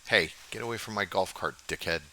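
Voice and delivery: loud warning yell at a looter; angry yell. Real, not acted. Yelling at a stranger near his golf cart, angry. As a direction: bark it at the guy by the cart.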